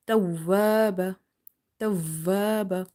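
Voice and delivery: tawwaba slowly with the ww held; slow tawwaba, ww leaned on; doubled waw. Shown as a demonstration. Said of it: "waw is twice because of the shadda".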